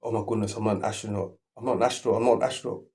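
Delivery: mild mock panic, rising; imitating a frightened rambler, lightly; understated panicky voice; panic mode. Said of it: "it's a panic mode".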